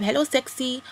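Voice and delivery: chat-up line in a put-on African accent; lightly imitated African-accented flirt. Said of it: "I've gone into African accent".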